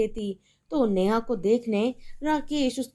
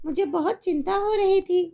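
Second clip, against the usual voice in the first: higher, breezy, cheerful phone chat; making shopping plans with a friend; chatty mother on the phone; 10 semitones higher than usual. Acted. Mother feigns worry.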